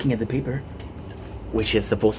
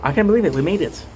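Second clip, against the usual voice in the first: excited; 5 semitones higher, 5 dB louder, faster than usual. Real, not acted. Finally near end of marathon.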